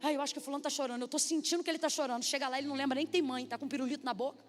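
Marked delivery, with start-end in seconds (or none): 0.0-2.2 worried mother. Retold or imitated. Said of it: "Toda mãe que bota o filho na salinha".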